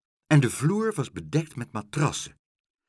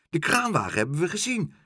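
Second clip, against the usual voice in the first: put-on excited kids calling; 7 semitones higher, 3 dB louder, faster than usual. A narrator's reading. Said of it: "riepen de stampertjes".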